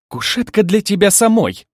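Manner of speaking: high, loud angry retort; indignant flare-up. A narrator's reading. Bride rejecting the couch her rival offers, indignant outburst. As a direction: flare up at being dismissed. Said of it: "вспыхнула Злата".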